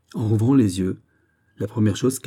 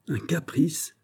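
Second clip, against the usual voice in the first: high-pitched, affronted echo; exclaimed question; 8 semitones higher, slower than usual. A narrator's reading. King to his beloved at being accused, exclaiming. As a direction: throw it back as a startled question. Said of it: "s'écria le roi".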